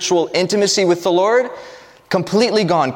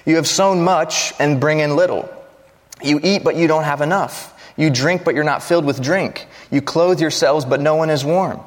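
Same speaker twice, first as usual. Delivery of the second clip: impassioned scripture reading. Acted. Pastor reading Haggai aloud to his congregation, impassioned. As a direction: proclaim the prophet's rebuke to the people.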